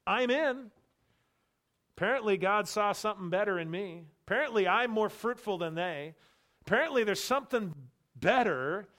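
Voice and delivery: a self-satisfied Gentile bragging about being picked; smug believer. Pretend. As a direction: play the proud convert, a bit hammed-up. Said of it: "here's the warning of an egotism".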